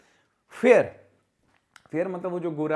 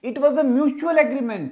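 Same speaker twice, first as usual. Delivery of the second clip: slow, louder, higher wrong sentence; wrong example, slow; 7 semitones higher, 8 dB louder, much slower than usual. Shown as a demonstration. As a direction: present the faulty sentence. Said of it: "सुपरफ्लस".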